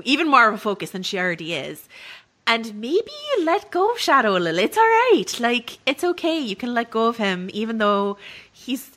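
hammed-up, uneven attempt at Irish; terrible Irish accent. Podcast host giving hopes for the show's next season, bad Irish accent. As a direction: put on a badly faked Irish accent. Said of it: "my terrible Irish accent starts now".

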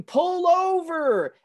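very slow, drawn-out cop command; cop's order. Retold or imitated. Quoting the movie cop to his friend, very slow stern command. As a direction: stretch it out like a cop pulling someone over. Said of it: "the cop going".

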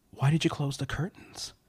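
eerie, measured question; creepy caller. Acted. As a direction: ask it as the creepy stranger on the line. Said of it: "all of a sudden she hears".

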